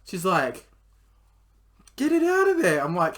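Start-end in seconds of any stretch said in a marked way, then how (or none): 1.9-2.8 high, loud panicked shout; shrieking demand. Retold or imitated. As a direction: scream the order at him. Girlfriend demands removal.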